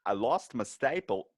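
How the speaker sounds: Walken mortician. Retold or imitated. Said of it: "your Walken voice".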